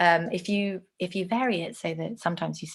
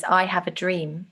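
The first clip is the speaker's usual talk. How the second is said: I stressed, slow and weighty; slow quote with stress on I; stressed phrase. Shown as a demonstration. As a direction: lean on the opening I. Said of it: "His stressed phrase".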